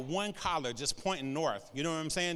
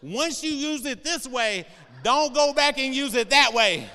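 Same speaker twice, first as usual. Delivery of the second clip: dramatic label reading; 6 semitones higher, 7 dB louder than usual. Shown as a demonstration. Pastor reading a thermometer label to the congregation, mock grave and loud. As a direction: read it like a grave warning, building to a loud finish. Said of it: "I'm just gonna say it like this".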